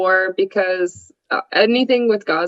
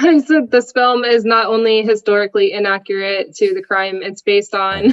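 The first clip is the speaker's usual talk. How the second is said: laughing while reading. Real, not acted. Reads her joke review aloud.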